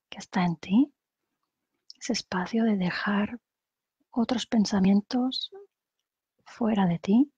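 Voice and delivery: calm guided-meditation voice with long pauses; unhurried meditation leader, phrase by phrase. Acted. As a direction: guide them gently through breathing, pausing between phrases.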